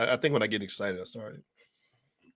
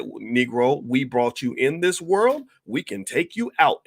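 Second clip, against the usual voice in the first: menacing boss voice; 2 semitones higher, 3 dB louder, slower than usual. Retold or imitated. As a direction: lay down the law like the master. Democrats threatening him, acted quote.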